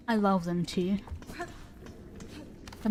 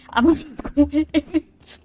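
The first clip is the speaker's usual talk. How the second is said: dragged-out, louder "I will just quit"; mock rage quit; 6 semitones higher, 6 dB louder, much slower than usual. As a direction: spells out the threat slowly and loudly, half joking. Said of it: "I will just rage quit".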